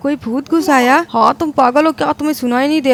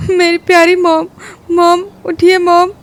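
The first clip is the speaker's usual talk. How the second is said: higher, tearful lament; grieving lament; 4 semitones higher than usual. Acted. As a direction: mourn mom while kneeling. Son grieving over mother. (माँ के लिए दुखी विलाप)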